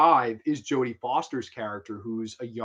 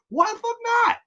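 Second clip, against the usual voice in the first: very high and louder; excited outburst; 6 dB louder, faster than usual. Real, not acted. Reviewer still ranting to viewers, very high outburst. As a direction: fire it off worked up. Continuing the rant.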